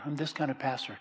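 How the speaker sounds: a hint of a kind shepherd; gentle pastor. Shown as a demonstration. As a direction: show the loving kind of pastor. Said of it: "I'm not this kind of pastor".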